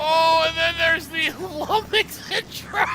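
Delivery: high laughing outburst. Real, not acted. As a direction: break up laughing. Laughing at the Olympics intro.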